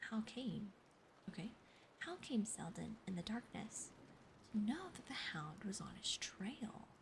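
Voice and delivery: ASMR whisper reading; whispered story reading. Acted. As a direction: read it to them in a hush.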